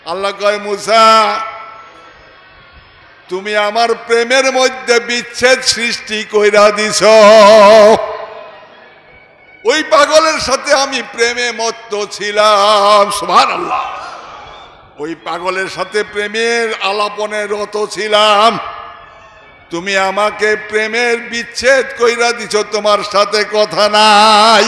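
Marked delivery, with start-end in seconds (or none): 0.6-13.1 slow, solemn and louder divine rebuke; voice of God. Acted. Allah speaks to Musa. 13.1-14.0 exclaimed praise. Real, not acted. Preacher's exclamation to the crowd. 15.0-24.6 slow, solemn and louder divine rebuke; voice of God. Acted. Allah speaks to Musa.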